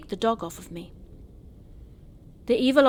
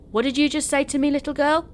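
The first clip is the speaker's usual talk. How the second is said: put-on maybe-German accent; 7 semitones higher, 6 dB louder than usual. A narrator's reading. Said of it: "he said with some accent, maybe German".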